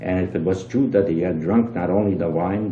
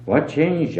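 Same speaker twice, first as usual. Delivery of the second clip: pitched up in feigned innocence; mock surprise; 8 semitones higher than usual. A narrator's reading. Innkeeper feigning surprise at the traveler's demand for change. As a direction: play dumb, eyebrows raised.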